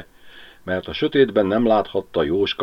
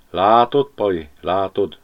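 a little sad; 4 dB louder than usual. Acted. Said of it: "mondta kicsit szomorúan".

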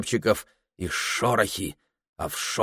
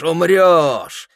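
higher, louder accusing cry; loud, menacing shout; 8 semitones higher, 7 dB louder than usual. A narrator's reading. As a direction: hurl it like walls screaming at him. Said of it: "закричали стены".

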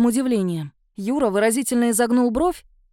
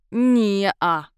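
creature denial; 3 semitones lower than usual. Acted. Round shadow shakes its whole body.

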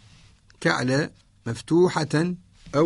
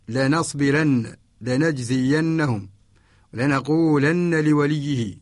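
Quranic recitation; slower than usual. Shown as a demonstration. Teacher reciting Quranic examples.

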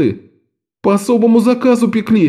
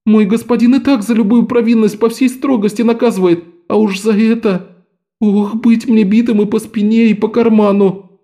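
much higher, snivelling lament; sniffling boy; 10 semitones higher than usual. A narrator's reading. Lok sniffles to the men about his beating. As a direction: whimper through a runny nose. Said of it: "захлюпал носом".

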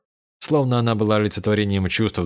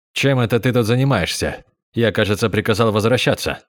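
rough tone. Acted. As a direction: snap the question a bit harder. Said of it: "Тон Казуки стал грубым". (грубый, резкий тон)

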